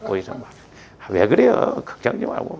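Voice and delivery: soft, low acted reassurance; loving reassurance. Calming an angry partner with God's love, softly reassuring. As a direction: play the patient soother, voice dropped. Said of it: "하나님 사랑은 뭐요?".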